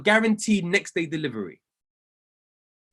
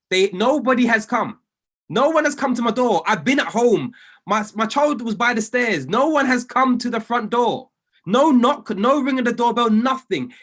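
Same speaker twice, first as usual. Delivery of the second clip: louder, insistent retold protest; indignant protest; 3 semitones higher, 4 dB louder than usual. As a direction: hammer each denial like you are fed up. Retelling complaint to delivery firm.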